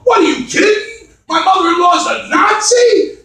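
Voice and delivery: high-pitched disbelief; mock incredulity. Groom reacting to mother-in-law's name, mock incredulous. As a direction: pitch right up in astonished questioning.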